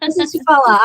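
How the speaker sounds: hammed-up insistence; dad pressing his point; mock insistent dad. Father insisting, retold.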